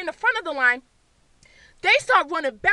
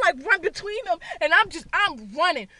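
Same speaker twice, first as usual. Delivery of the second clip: ordinary delivery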